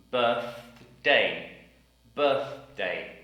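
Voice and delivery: Birthday with a clear th in the middle; Birthday, tongue out mid-word; careful th in birthday. Shown as a demonstration. Teacher drilling the word Birthday. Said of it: "T H sound in the middle".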